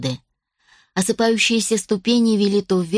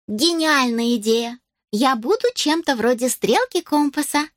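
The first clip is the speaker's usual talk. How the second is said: put-on elf girl voice; 5 semitones higher than usual. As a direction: exclaim it like a delighted elf.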